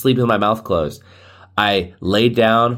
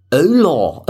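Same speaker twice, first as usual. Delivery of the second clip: put-on higher, drawn English accent on Spanish; 4 semitones higher, 3 dB louder than usual. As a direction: greet in Spanish like a mock English speaker. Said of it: "the Spanish language in an English accent".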